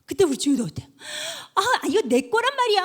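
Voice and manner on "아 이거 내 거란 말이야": put-on irritated child. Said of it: "짜증이 나서".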